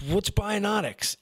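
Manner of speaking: put-on high, slow, wide-eyed drunk woman; mock curious drunk woman. Drunk woman asking about the fake degree, slow high mock voice. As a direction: stretch it out like a tipsy woman, puzzled. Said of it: "she says".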